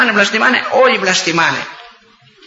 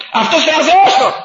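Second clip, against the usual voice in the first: mocking laugh; 9 semitones higher than usual. Real, not acted. Mocking the atheist's god.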